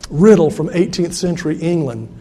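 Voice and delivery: ordinary talk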